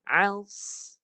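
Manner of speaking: Als with a thick, heavy hiss on the s. Shown as a demonstration. Teacher modelling the thick sad hiss. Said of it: "Desiran tebal".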